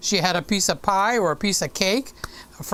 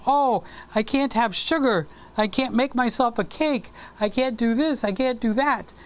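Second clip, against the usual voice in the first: whiny dieter; 4 semitones higher than usual. Retold or imitated. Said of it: "suffer by saying".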